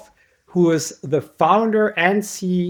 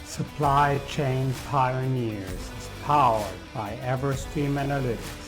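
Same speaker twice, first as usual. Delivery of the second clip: measured, softer ad-read voice; sponsor read; 8 dB quieter than usual. Acted. Host tells listeners about the podcast's sponsor, ad read. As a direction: read the sponsor message smoothly over music.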